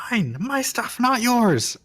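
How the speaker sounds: high, screeching ghost cry; angry scream. Acted. Game master voicing an angry ghost at players, high-pitched angry scream. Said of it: "angrily scream".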